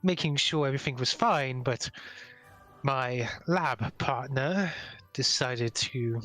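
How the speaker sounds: lightly voiced, measured scientist; weary doctor. Rescued doctor thanking and explaining to players, lightly voiced weariness. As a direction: explain slowly with a hint of weariness.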